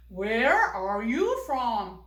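put-on slow, deliberate model sentence for kids; 천천히 또박또박. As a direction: say each word slowly and loudly, like a teacher model. (아이들에게 천천히 또박또박 들려주는 탐 목소리)

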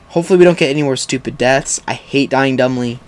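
ordinary delivery

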